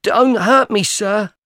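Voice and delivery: high, loud frightened plea; a terrified boy begging for mercy; begging in terror. A narrator's reading. Boy begging the convict not to hurt him, terrified. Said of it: "I begged in terror".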